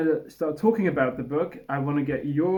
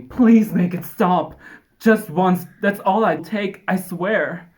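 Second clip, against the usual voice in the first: louder mock British pleading; British accent; 3 semitones higher, 5 dB louder, slower than usual. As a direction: beg in a put-on British accent. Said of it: "Oh wait, he's British".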